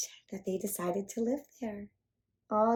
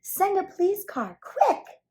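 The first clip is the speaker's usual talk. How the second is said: high, loud urgent call; urgent yell; 12 semitones higher, 7 dB louder than usual. Acted. Policeman yelling for a car, high and loud. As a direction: bark the order, rising higher at the end. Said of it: "yelled Michael".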